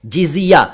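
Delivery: जिजिया as "jiziya"; correct pronunciation. Shown as a demonstration. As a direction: say जिजिया with j first, then z. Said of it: "इसका सही उच्चारण है". (जिजिया का सही उच्चारण, पहले ज फिर ज़)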